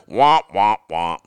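falling cartoon trombone imitation; sad trombone. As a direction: deflate it like a failure sound effect. Mocking fans' dashed hopes.

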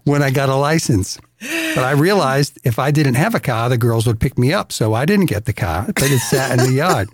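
Boston-accented yarn. Shown as a demonstration. Explaining why he skipped the car, in a Boston accent. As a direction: tell it like a Boston local. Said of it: "gonna talk like they talked".

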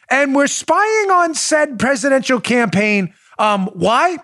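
questioning official. Retold or imitated. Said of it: "the third question would be".

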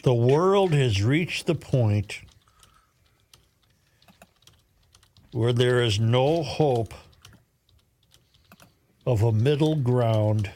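slow, deliberate dictation pace; dictating. Shown as a demonstration. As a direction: spell it out slowly for typing. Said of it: "Read it back to me".

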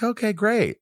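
high, hollow praise; mock polite dismissal. Casting team after a bad audition, mock polite. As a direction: fake enthusiasm. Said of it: "And they're like".

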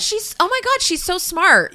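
mock amazement. Mocking men praising women.

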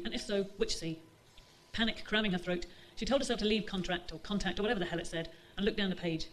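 measured reading voice for a novel; story narration. A narrator's reading. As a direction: read the chapter aloud to the audience. Author reads second extract.

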